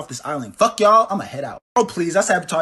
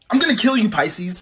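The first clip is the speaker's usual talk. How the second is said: angry; 5 semitones higher than usual. Acted. Threat to Pisces.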